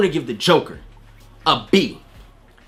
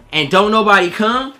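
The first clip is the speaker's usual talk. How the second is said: ordinary talk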